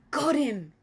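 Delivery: loud, high triumphant cry; excited cry. Acted. Giant crying out to Sophie over his catch. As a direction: shout it as he bags the dream. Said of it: "he cried".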